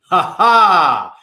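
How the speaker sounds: loud, mocking ha ha; shouted laugh. A narrator's reading. Samhain laughs down at the fleeing boys, loud and mocking. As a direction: laugh in triumph from above. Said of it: "shouted Samhain".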